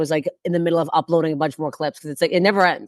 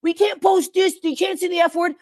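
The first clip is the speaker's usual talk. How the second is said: high, prissy censor voice; mocking the CBC; 10 semitones higher than usual. Ridiculing CBC rules in a high prissy voice. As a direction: play a fussy network scold. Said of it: "C B C is like".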